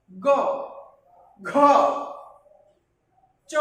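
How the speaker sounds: slow teacher drill, each Bengali letter ক খ গ ঘ said apart; aspirated letters like খ and ঘ given a small breathy push; letter-by-letter pronunciation drill. Shown as a demonstration. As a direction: read the alphabet slowly with short pauses. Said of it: "একটু ধাক্কা দিয়ে উচ্চারণ করতে হবে".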